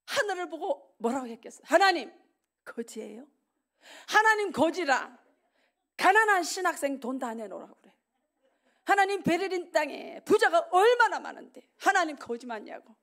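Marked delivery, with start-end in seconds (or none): 1.6-12.9 crying out to God. Retold or imitated. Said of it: "막 울었어".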